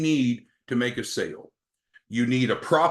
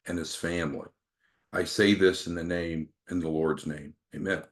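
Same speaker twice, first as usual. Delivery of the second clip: lightly imitated older man at prayer, firm start sinking lower; Joseph's gravelly prayer; 4 semitones lower than usual. Coach continues Joseph's prayer for the prospect, lightly imitated gravelly voice. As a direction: recite the prayer, settling low by the amen. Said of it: "Joseph would continue".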